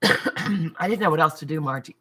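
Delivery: throat catching on a bug; coughing up an inhaled bug; just swallowed a bug. Real, not acted. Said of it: "Apparently I just inhaled a bug".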